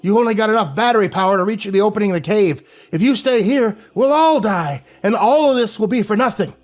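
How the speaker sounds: high, loud desperate command; angry old man shouting. A narrator's reading. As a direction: shout them out of the cave.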